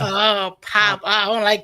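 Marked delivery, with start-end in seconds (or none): 0.6-1.0 louder pab with an open a; trying out pab. Shown as a demonstration. Copying the London pab a friend just showed. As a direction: repeat pab, open a sound. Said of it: "it's pab".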